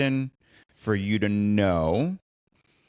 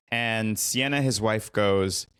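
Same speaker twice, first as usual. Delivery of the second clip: ordinary talk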